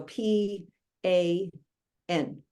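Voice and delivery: "P A N" as letter names, one at a time; spelled out. Shown as a demonstration. Teacher showing how students spell pan, spelled out. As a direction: spell out "P A N" letter by letter, pausing before N. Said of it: "what are the letters you're going to use".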